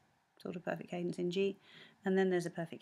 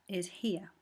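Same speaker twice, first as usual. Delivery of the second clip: whispered aside. Real, not acted. Points at the score.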